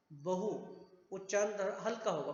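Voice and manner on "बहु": बहु with a short, light final u; short vowel बहु. Shown as a demonstration. Teacher showing the short u in बहु. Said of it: "ह्रस्व स्वर है".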